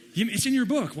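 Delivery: man arguing with God, high and incredulous; incredulous protest. Pretend. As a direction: protest in disbelief, pitch jumping up. Pleading with God in joke.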